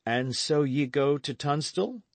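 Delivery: a lad cheering his friend; young Dick. A narrator's reading.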